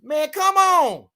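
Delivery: slow, drawn-out high whine; exasperated protest. Real, not acted. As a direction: stretch it out in disbelief.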